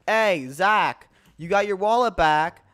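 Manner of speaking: called out loud and eager; eager yelled announcement; calling out. Retold or imitated. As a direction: shout the good news across camp. Kid calling out excitedly.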